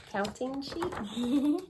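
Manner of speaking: slow, drawn-out counting sheep. Acted. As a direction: stretch it out sleepily. Reading counting sheep page slowly.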